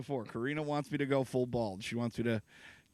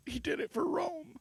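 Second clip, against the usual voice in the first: epic hero voice; 14 semitones higher than usual. Pretend. Mock epic line, movie hero.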